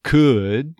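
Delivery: "Could" as "COO-uhd"; stressed off-glide. Shown as a demonstration. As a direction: slide off the vowel in "Could". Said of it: "There's that off glide".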